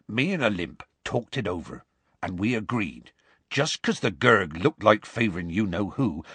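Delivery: lightly voiced rustic storyteller; Hagrid resuming. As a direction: explain the plan evenly in dialect.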